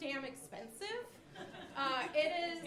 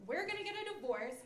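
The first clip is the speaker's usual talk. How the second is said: higher, building to a loud comic threat; sister's mock warning; 6 semitones higher, 10 dB louder than usual. Older sister scaring little sister, building mock threat. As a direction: pile on the doom, louder each line. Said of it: "my sister told me".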